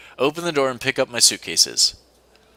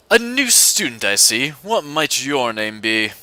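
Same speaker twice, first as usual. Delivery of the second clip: put-on a stern professor in a posh British accent, drawn out at the end; slower than usual. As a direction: play the cold British schoolmaster, unhurried. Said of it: "I have to do an accent for him".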